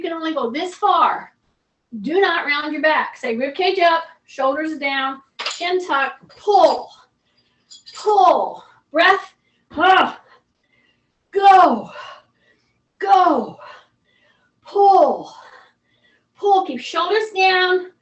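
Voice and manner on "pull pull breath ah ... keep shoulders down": loud, urging coach cues; tug of war. Shown as a demonstration. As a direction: push them through each pull. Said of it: "coach counting reps, urging on".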